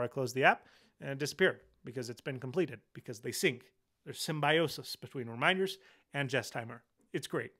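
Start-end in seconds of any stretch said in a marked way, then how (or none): 4.0-7.5 short of breath and tired; running out of air. Real, not acted. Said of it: "I'm running out of breath and energy".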